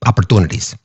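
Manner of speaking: a quick Minnesota Opportunities, imitating the coach; Minnesota accent. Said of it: "in his Minnesota accent".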